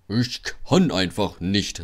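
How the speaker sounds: slow, lightly voiced sulky engine; mildly whiny refusal. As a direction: drag it out in protest. Gordon sulking on the hill.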